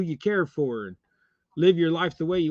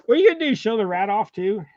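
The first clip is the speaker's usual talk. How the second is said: much higher, louder pet voice; baby talk to dog; 5 semitones higher, 3 dB louder, faster than usual. Acted. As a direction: tease the dog. Talking to the dog.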